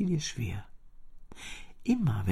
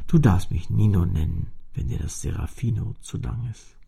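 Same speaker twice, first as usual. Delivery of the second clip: put-on much lower, firmer old cello voice; an old instrument lecturing the child; deep-voiced old cello telling its story; 6 semitones lower, 4 dB louder than usual. A narrator's reading. The cello tells where it's from.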